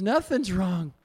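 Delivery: high, loud, almost shouting with joy; overjoyed. Retold or imitated. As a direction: burst out in ecstatic happiness. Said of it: "He goes".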